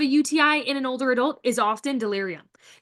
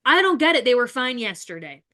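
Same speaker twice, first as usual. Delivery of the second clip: baffled relative; 4 dB louder than usual. Retold or imitated. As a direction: sound shocked that she changed overnight. Family member voiced, baffled.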